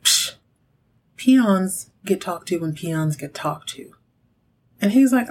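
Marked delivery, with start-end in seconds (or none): 0.0-3.9 high and mighty. Retold or imitated. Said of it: "Kristen's acting like she's high and mighty".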